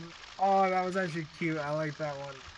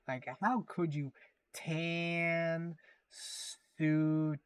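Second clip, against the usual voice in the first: mock outrage; slower than usual. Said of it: "Fox News threw a riot over it, saying".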